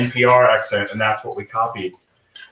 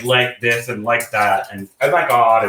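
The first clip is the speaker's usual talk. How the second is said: put-on Valley boy. Recalling a lost Southern accent, mock Valley boy. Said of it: "like, a Valley boy".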